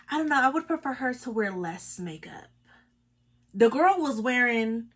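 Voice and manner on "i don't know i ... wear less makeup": hushed, unvoiced whisper of an awkward question. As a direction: breathe it out like asking a secret. Retelling husband's awkward question.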